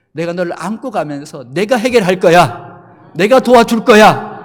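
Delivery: powerful promise. Retold or imitated. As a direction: thunder out God's promise. The Lord's strong promise.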